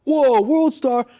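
loud, high, drawn-out shout; imitated holler. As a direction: holler it out like a heckler with a phone. Retelling guy shouting while recording.

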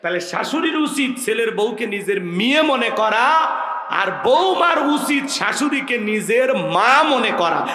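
full-voiced sermon push; forceful preaching. Real, not acted. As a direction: hammer the moral home to the crowd. Preacher driving home his point.

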